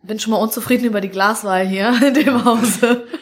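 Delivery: mock grumble breaking into laughter; amused complaint. Real, not acted. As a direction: complain jokingly, laughing toward the end. Joking complaint about glasses, laughs. (scherzhafte Beschwerde mit Lachen)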